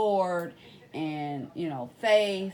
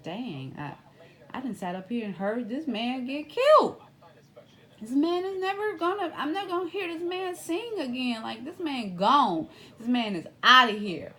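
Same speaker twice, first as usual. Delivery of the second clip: higher-pitched, rising anguish, louder at the end; emotional witness's thoughts; 7 semitones higher, 4 dB louder than usual. Retold or imitated. Witness reliving the gunshots he heard, anguished high voice. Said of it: "it made him emotional".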